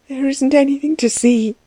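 acted tearful denial; weeping. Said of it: "she wept".

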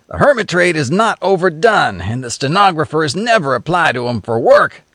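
lightly voiced sardonic passenger; a hint of a cynical tramp; cynical drifter. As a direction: needle the others with a sly grin.

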